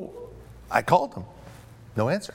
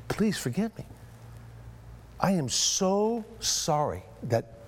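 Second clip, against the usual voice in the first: pleading apology; 3 semitones higher, 5 dB quieter, slower than usual. Retold or imitated. Retold apology to offended man.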